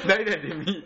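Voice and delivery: Nara dialect phrase broken up by laughter; laughing Nara dialect. Retold or imitated. Showing a friend the Nara dialect, laughing Nara accent. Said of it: "奈良も方言あるやんか".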